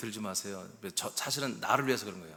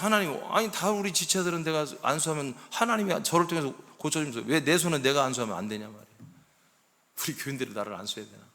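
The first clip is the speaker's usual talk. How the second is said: retold heated, raised-voice complaint; angry protest to God; 4 semitones higher, 4 dB louder than usual. Pastor retelling his quarrel with God over healing, angry protest. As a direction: argue it out indignantly, as if retelling a quarrel. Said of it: "막 화를 내고 막 하나님께 따졌어요".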